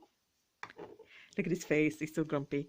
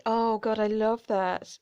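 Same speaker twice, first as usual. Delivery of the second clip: excited; 6 dB louder, slower than usual. Real, not acted. Excited over jewelry.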